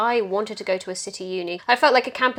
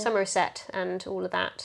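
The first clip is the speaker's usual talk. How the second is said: put-on West Country accent; 5 dB quieter than usual. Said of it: "Is my best West Country accent".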